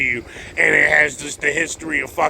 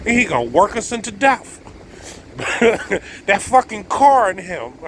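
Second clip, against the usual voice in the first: normal talking voice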